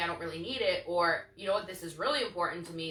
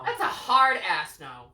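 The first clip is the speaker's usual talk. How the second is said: slow, emphatic hard no; vehement denial; 2 semitones lower, 6 dB louder, much slower than usual. Real, not acted. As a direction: drag out the refusal. Vehement refusal, drawn out.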